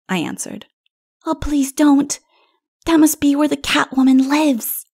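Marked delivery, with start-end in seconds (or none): 1.3-4.8 put-on high, anxious little child voice; little child pleading. A narrator's reading. Little one warning king of Catwoman, anxious child.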